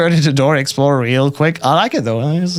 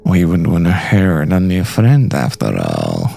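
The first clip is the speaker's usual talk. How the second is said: lightly voiced villain. Villain instructing on the needle, lightly menacing.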